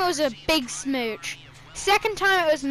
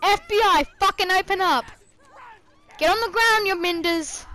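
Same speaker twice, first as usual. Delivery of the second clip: high barking cop yell, louder; mock FBI raid shout; 6 semitones higher, 4 dB louder than usual. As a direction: storm in like an FBI agent. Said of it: "then there's just like".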